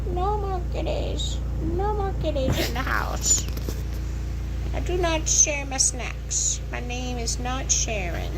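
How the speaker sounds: high, slow put-on dog voice, grumbling; the dog refusing to share with the kittens, in a high grumpy voice. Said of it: "kitten angry".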